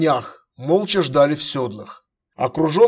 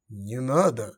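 soft; 3 semitones lower, 5 dB quieter, slower than usual. Acted. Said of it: "мягко произнёс голос".

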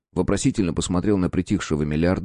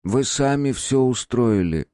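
sighing; 5 semitones higher, slower than usual. Acted. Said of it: "вздохнул профессор".

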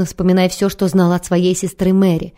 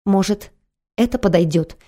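unsure. Acted. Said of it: "неуверенно сказала Кэролайн, лязгая зубами".

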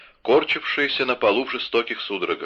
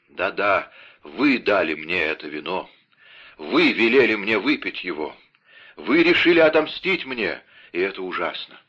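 сдержанно сыгранный обвиняющий умирающий; бросай обвинения, голос срывается к концу; умирающий Бризмон; 3 dB louder than usual. Acted. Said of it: "вскричал Бризмон". (умирающий Бризмон, сдержанно)

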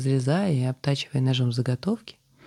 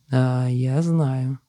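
slow, pensive reply; thoughtful; much slower than usual. Acted. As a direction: say it slowly, lost in thought. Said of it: "задумчиво произнёс Алик".

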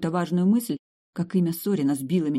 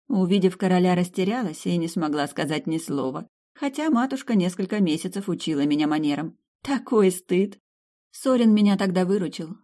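lightly voiced countess, slightly higher pitch; reminiscing countess; 4 semitones higher than usual. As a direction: countess recalling her youth at court.

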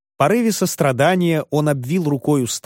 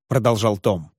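ordinary delivery

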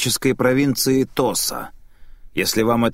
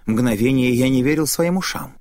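plain reading voice

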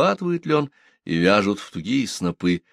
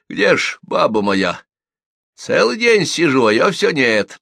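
louder, higher grumble; plaintive complaint; 7 semitones higher, 5 dB louder than usual. A narrator's reading. Husband asks visitor where his wife is, complaining. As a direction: grumble about being kept waiting.

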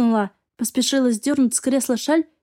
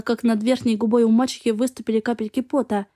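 plain reading voice

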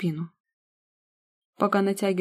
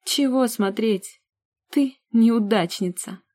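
slow, higher, louder gloating; triumphant jeer; 4 semitones higher, 4 dB louder, slower than usual. Acted. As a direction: jeer at her, smiling in victory. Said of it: "Победно улыбаясь".

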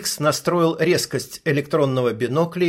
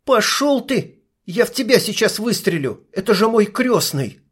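furious refusal; 7 semitones higher than usual. Acted. Sniper refusing to shoot her godfather, outraged. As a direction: throw it back at him, outraged.

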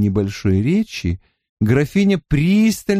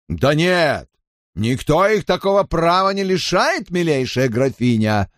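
gallant objection; 5 semitones higher than usual. Acted. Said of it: "возразил Робер".

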